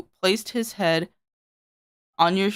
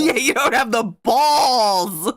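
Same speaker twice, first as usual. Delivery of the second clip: high, slow dare through laughter; can barely get it out for laughing; cracking up while mocking; laughing taunt; 7 semitones higher, 6 dB louder, slower than usual. Real, not acted.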